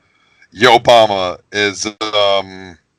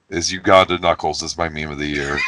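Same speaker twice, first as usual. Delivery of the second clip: laughing; 6 semitones lower, 4 dB quieter, faster than usual. Real, not acted. Reluctant meme pick, laughing.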